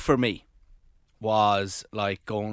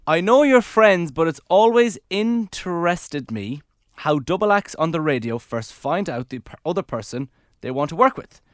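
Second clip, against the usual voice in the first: reading aloud; 2 semitones higher, 5 dB louder than usual. Shown as a demonstration. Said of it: "sorry, I'm reading that".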